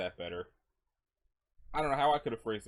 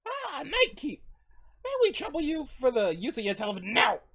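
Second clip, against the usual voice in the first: higher, courteous caller at the night counter; polite late-night visitor; 12 semitones higher, 6 dB louder than usual. Acted. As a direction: play a politely imploring traveler.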